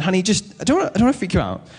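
imitating a nervous heads-up to a partner; careful forewarning voice. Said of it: "you do that voice like".

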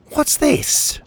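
very high, breathy surprise; startled whisper. A narrator's reading. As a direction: gasp it out in disbelief. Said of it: "Pockets asked".

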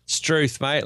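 put-on broad Ocker Australian; mock Ocker accent. Co-host teaches proper English, mock Ocker accent. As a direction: teach them Ocker with a hammed-up twang. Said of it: "a bit of Ocker".

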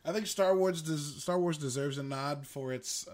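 talking through a spit choke; clearing a catch in the throat; choking on spit. Real, not acted. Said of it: "choking on my spit".

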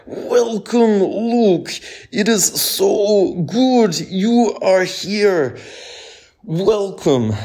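high, slow Ukrainian-Russian accent, hammed up; slow and grand, with a thick Ukrainian-Russian accent; booming Ukrainian accent. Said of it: "this booming voice ... I'm not sure I can do accents very well".

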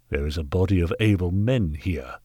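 lightly voiced haughty gentleman; measured, condescending authority; stern knight. Knight questioning the workhouse master, lightly voiced sternness.

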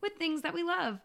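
upbeat show opener; podcast host intro. Acted. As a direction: welcome the listeners in.

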